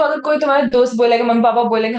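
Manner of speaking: ordinary talk, nothing marked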